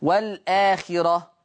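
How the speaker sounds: slow recited والآخرة, hamza dropped, vowel moved to the lam; drawn-out والآخرة recited for students; tajweed recitation with naql. Shown as a demonstration. Teacher demonstrates naql for students, slow Quranic recitation. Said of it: "النقل اللي هو نقل حركة الهمز".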